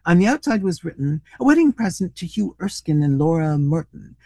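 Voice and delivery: animated, expressive storybook reading; story narration. A narrator's reading. Reader telling a comic short story to listeners, animated narration. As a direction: read it out with lively rises and falls.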